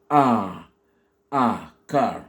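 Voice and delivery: "A" held as a long ah, then "car"; isolated long vowel "A", then "car". Shown as a demonstration. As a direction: draw out "A" and carry it into "car". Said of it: "avec un A long".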